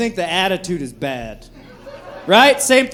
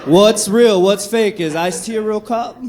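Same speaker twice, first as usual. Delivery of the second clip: excited fan; 2 semitones higher than usual. Retold or imitated. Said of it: "and I'm like".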